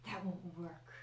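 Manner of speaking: low, quiet villain taunt; menacing villain. Acted. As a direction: taunt them softly. Villain NPC taunting player.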